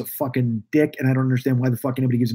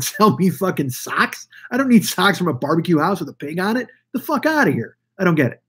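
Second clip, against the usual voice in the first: exasperated rant; 4 semitones higher than usual. Real, not acted. Exasperated rant at merch-selling restaurants.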